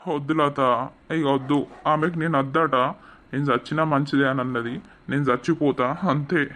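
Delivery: low, heavy hopeless voice; despairing. Acted. Rejected husband telling friend he wants to die, despairing. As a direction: sound like you have given up. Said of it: "ఎందుకు ఏడుస్తున్నావు?".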